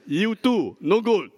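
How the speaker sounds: teasing sing-song. Shown as a demonstration. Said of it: "and also say what".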